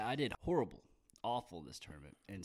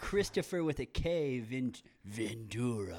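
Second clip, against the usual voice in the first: slow deliberate name; 2 semitones higher, 3 dB louder, slower than usual. Shown as a demonstration. Slowly stressing a name.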